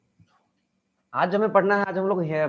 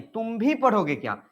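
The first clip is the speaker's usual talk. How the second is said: भी lifted higher in the question; stress on भी; 4 semitones higher than usual. Shown as a demonstration. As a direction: question in raised pitch, weight on भी. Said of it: "भी पर।".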